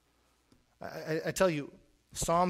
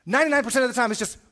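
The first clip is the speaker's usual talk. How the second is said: much higher and louder, full force; loud preaching; 7 semitones higher, 9 dB louder, much faster than usual. Shown as a demonstration. Preacher repeating the phrase, now loud and high. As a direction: bellow it from the pulpit.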